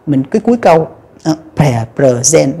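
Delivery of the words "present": "present" with low opening syllables and a level, strong ending "zen"; stress on final syllable. Shown as a demonstration. Teacher shows lowered unstressed syllables, end stress on "present". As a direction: keep the start of "present" low, lean on the end. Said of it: "mình hạ hai âm kia thành dấu huyền".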